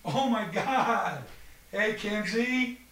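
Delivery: high, drawn-out delighted hello; delighted greeting. Acted. Host greeting surprise guest at the door, delighted. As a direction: squeal a surprised welcome, off the mic.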